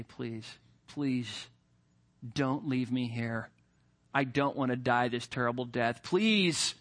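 hushed, low begging; quiet pleading. Retold or imitated. Condemned criminal to desert warden, quiet pleading. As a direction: beg softly not to be left behind. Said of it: "you begin to plead and say".

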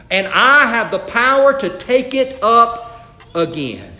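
slow, deliberate preaching cadence; scripture declamation. Real, not acted. Preacher repeats Jesus' words to congregation, slow and emphatic. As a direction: proclaim it slowly, building in force.

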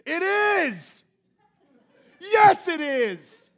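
preacher acting out a sulking, indignant Jonah; angry Jonah. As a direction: ham up a petulant Jonah answering God. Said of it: "And he says".

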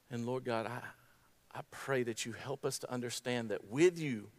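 hushed, earnest prayer with long pauses; soft, reverent address to God; closing prayer. Real, not acted.

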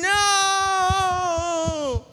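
high, loud horror-movie yell; screaming at the TV. Retold or imitated. Audience yelling at a horror movie girl, loud high shout. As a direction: yell a warning at the girl on screen. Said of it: "You're screaming at the T V".

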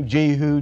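Jehu with a long 'ee' in the first syllable; Jehu as JEE-hoo. Shown as a demonstration. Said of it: "any one of those is correct".

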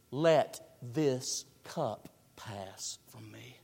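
slow hushed whisper of anguish; whispered garden prayer. Acted. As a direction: breathe it out as a quiet plea. Jesus praying in the garden.

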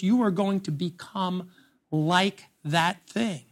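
quiet solemn warning. Acted. Solemn warning, dropping softer.

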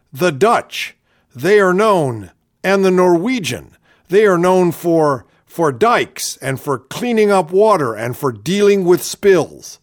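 a light Palin parody with stumbling pauses; Sarah Palin impression. Host mocks the politician's answer on oil spills, lightly imitating Palin. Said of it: "I love the way she talks like this".

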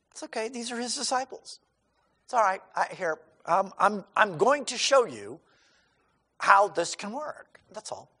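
calm them down kindly; gentle, reassuring. Retold or imitated. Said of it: "He doesn't get angry".

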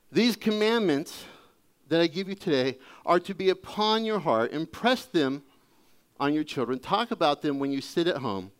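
preacher reading scripture. Acted. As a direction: proclaim the passage with gravity. Reads Deuteronomy aloud.

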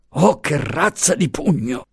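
high-pitched pained lament; moaning. A narrator's reading. Punched guard lamenting the blow, moaning. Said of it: "gemeva la guardia".

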